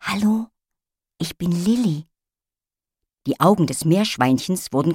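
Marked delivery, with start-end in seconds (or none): 0.0-2.1 gentle voice. A narrator's reading. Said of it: "sagte mit sanfter Stimme".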